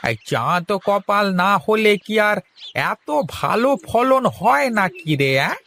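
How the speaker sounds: words still bubbling with laughter; amused, laughing retort. Acted. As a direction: talk through the tail of a laugh. Laughing reply to teasing.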